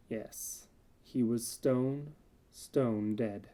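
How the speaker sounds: breathy hushed yes, then slow stone dead; hushed gloating. Acted. Narrator to the reader over the corpse, slow hushed gloating. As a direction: savor it quietly, slowly.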